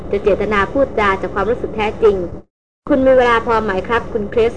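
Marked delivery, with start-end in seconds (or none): 2.9-4.5 คริส pronounced clearly and deliberately; polite question, คริส clearly emphasised; stress on คริส. A narrator's reading. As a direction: lean on the name คริส at the end. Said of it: "เขาเน้นเสียงคำว่าคริสอย่างชัดเจน".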